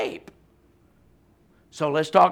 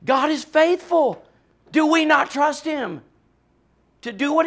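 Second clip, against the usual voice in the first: passionate proclamation; 7 semitones higher than usual. Real, not acted. Preacher to congregation, passionate proclamation. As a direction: ring it out with conviction. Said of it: "Just passionate".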